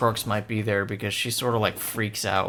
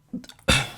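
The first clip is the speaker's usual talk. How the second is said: hiccup; 4 semitones higher than usual. Real, not acted. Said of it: "sorry, I'm hiccuping".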